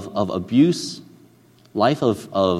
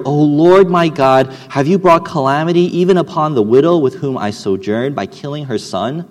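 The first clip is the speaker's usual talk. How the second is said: crying out to God; 2 semitones higher, 7 dB louder than usual. Acted. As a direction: call out to heaven in anguish. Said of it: "And he cried to the Lord".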